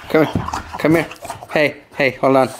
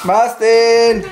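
higher, long drawn-out name call; calling the dog; 4 semitones higher than usual. Real, not acted.

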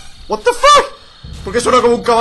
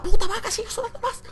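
laughing; 11 semitones higher, 7 dB quieter than usual. Real, not acted. Laughing at the cow sound.

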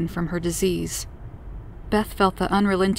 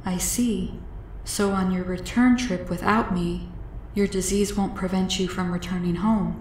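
soft, measured alien voice; a hint of a gentle visitor; lightly voiced alien; 3 dB quieter than usual. Alien checks on her return trip, quietly considerate.

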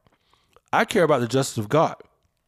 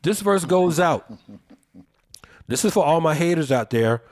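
radio DJ voice. Pretend. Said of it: "I sound like a, a radio D J".

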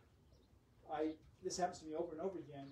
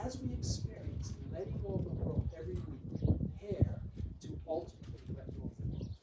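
measured, more careful pace; slow yourself down after rushing; real effort to pace the words; deliberately slowed down; 2 semitones higher than usual. Real, not acted. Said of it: "so I'll try to slow down".

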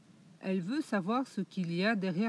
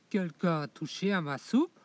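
big bear voice; 4 dB louder than usual. Acted. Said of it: "dit de sa grosse voix".

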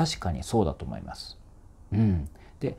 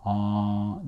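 open-mouthed resonance. Shown as a demonstration. Vocal coach shows the roomy mouth shape, open resonant "aah". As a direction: open "aah" with a wide space inside. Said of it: "あーってこうなりやすい".

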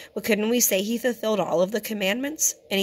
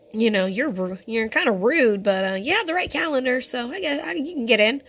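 sarcastic gatekeeper; 4 semitones higher, 3 dB louder than usual. Acted. Mocking a judge admitting rude people.

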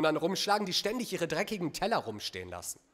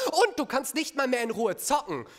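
exasperated complaint; 5 semitones higher, 4 dB louder than usual. Acted. Acted domestic complaint.

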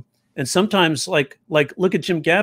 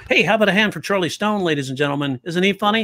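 MC voice; 5 semitones higher, faster than usual. Acted. MC introducing the act.

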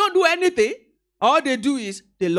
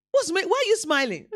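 higher-pitched questioning, mildly acted; puzzled onlooker; 5 semitones higher than usual. Onlookers question someone smiling for no reason, mock puzzlement. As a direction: play a bystander asking, a bit higher.

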